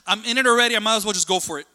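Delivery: hammed-up tantrum whine; imitated crying toddler. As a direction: play a toddler committed to crying. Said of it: "he's crying because he's just like".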